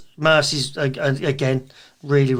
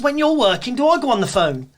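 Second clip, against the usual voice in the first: mock telling-off; 8 semitones higher, 3 dB louder than usual. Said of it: "He says".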